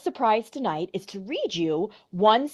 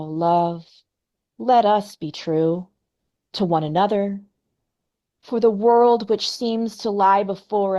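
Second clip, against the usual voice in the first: poem reading. Acted. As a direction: read the poem as if it costs him. Reads poem aloud.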